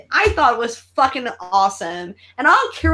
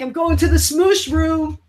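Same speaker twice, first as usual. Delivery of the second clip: Chucky voice; 4 semitones higher than usual. Retold or imitated. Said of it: "Chucky's like".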